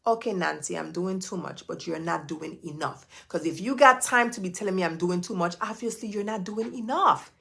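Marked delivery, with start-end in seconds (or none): 0.1-3.1 sassy comeback. Retold or imitated. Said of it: "Tell them".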